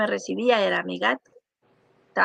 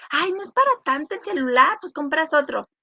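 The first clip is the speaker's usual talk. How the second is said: high, breezy, belittling "ay" voice; dismissive brush-off; 5 semitones higher than usual. Retold or imitated. Mimicking someone who tells a grieving friend it's no big deal, in a high dismissive voice. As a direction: wave off the loss as nothing.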